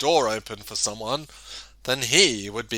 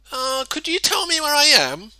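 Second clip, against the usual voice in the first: hesitant question; 13 semitones higher than usual. A narrator's reading. Mister Good asks the way.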